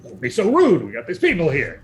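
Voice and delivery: lightly voiced nagging spouse; mild bickering scold; bickering couple. Spider scolds spouse before guests, mild bickering voice. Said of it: "doing a little bit of the Bickersons".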